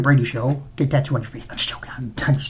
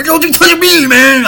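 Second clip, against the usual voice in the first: high, loud, squealing mock outrage; disgusted announcer; 12 semitones higher, 6 dB louder, slower than usual. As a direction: shriek it like a grossed-out announcer. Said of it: "That guy was like".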